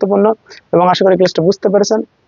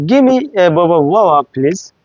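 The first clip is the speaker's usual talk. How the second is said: customer ordering; slower than usual. Retold or imitated. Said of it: "বলতে পারে".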